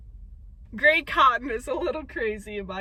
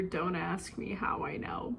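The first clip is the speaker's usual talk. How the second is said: soft, slow whispered aside; 5 semitones lower, 8 dB quieter than usual. Real, not acted. Vlogger whispering a joke about too much water. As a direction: whisper it like a guilty secret.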